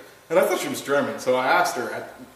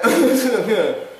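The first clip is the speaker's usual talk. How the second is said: retold laugh; 10 semitones higher, 7 dB louder than usual. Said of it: "And I'm like".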